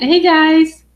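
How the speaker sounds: high, loud read-out greeting; excited greeting. Retold or imitated. Host reading a viewer's hello, excited. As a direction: call it out brightly to the crowd.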